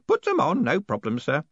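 put-on high, hoarse whispered old man. A narrator's reading. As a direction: rasp it under your breath. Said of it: "Groat's hoarse whisper".

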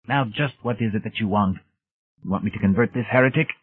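lightly voiced old priest, fast; suspicious old priest. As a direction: question them quickly. Old priest questioning visitors.

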